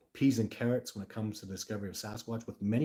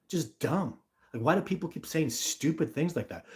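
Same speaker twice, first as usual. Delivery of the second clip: higher, exasperated complaint; fed up and pleading for sense; overly emotional; 4 semitones higher than usual. Real, not acted. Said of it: "here's me getting overly emotional".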